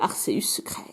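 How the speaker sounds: hushed secret reveal; whisper. Real, not acted. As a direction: breathe it like a secret. (chuchoté)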